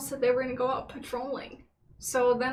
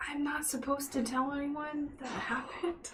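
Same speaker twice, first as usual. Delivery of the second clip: secretive whisper; 2 semitones higher, 7 dB quieter than usual. Acted. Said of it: "Sleepover voices".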